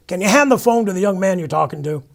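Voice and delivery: loud deaf priest. Retold or imitated. Father Joe on the phone, shouting as if everyone's deaf. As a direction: bellow it like a priest going deaf. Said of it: "he talked like everybody was going deaf".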